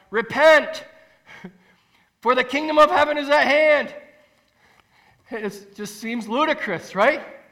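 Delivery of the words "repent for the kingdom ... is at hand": loud, high-pitched yelling. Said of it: "and he shouts".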